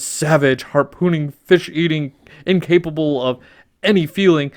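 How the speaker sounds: loud, scornful royal rant; a furious father king listing insults; hammed-up angry sea king lecturing his daughter; King Triton ranting. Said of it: "King Triton".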